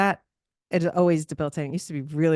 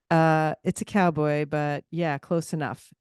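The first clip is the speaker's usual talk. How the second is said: slow, dry correction; dry deadpan tone; slower than usual. Retold or imitated. Imitating the dry young guy correcting her on the gondola. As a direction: flatly correct her, unimpressed. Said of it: "he said it with this tone".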